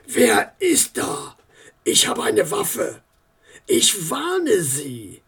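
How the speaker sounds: frightened warning. Acted. Armed man in the dark.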